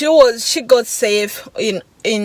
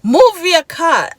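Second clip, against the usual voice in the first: higher, slow imitated demand; retold order; 7 semitones higher, 4 dB louder, slower than usual. Man ordering the driver to move, retold demand. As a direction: imitate a drawn-out, insistent order. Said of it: "And he's like".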